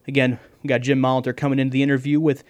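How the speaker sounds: talking too fast. Real, not acted. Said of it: "I'm talking too fast".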